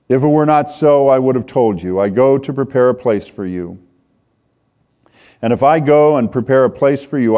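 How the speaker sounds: rising, declaiming reading voice; preacher reading Jesus' words; scripture reading. Acted. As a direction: proclaim the promise. Reads scripture passage aloud.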